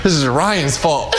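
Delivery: giggling while blaming; laughing, losing it. Real, not acted. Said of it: "I can't do this".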